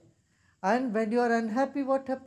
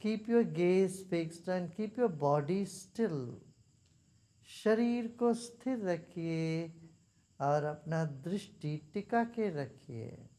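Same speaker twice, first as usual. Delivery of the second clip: measured instructions, spaced by long pauses; guided meditation. Real, not acted. Leads a meditation.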